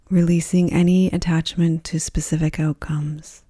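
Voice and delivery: calm, even-toned Yoga Nidra voice with long pauses; guided meditation. Acted. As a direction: guide them gently into rest, phrase by phrase.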